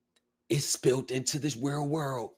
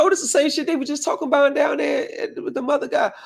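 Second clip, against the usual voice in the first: high-pitched, louder, wide-eyed exclamation; shocked realization; 13 semitones higher, 4 dB louder, faster than usual. Retold or imitated. Telling a friend how he reacted to the document, pitched way up in shock. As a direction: blurt it out as it dawns on you. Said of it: "I said".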